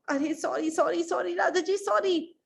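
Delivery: high, rapid-repeated pleading; apologetic minister. Acted. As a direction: grovel nervously before the king. Minister apologises to angry king. (घबराकर माफ़ी माँगते हुए)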